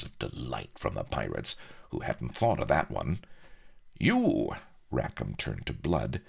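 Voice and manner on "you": pirate captain voice. Acted. Rackham turns on Blood.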